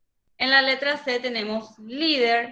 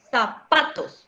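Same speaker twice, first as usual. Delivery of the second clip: zapatos with the middle syllable pa leaned on; teacher stresses pa in zapatos; slower than usual. Shown as a demonstration. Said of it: "Entonces, ¿cómo yo digo?".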